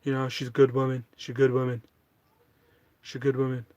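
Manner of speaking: lightly voiced impersonation; a hint of an American president, repeating the catchphrase; half-hearted catchphrase impression; Donald Trump. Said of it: "There's my Donald Trump".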